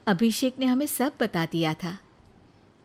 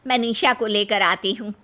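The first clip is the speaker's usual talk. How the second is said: delighted mother-in-law; 4 dB louder than usual. Acted. Mother-in-law hearing a marriage proposal, delighted. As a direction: burst with joy at the news.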